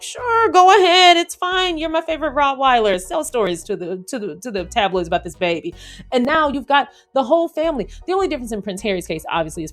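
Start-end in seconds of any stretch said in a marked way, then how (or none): 0.0-5.7 careless dad. Pretend. Dad casually agrees.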